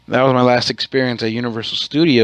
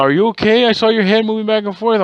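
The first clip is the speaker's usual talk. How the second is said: higher mock concerned wife asking, rising; imitating wife; 9 semitones higher than usual. Wife's voice in a retold story.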